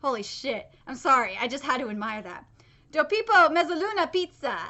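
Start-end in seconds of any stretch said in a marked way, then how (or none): 2.9-4.6 playful attempt at an Italian accent. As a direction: read it with an amateur Italian accent. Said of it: "my Italian accent there".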